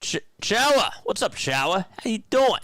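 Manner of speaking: high-pitched, excited hello; excited greeting. Real, not acted. Greets an arriving viewer by name.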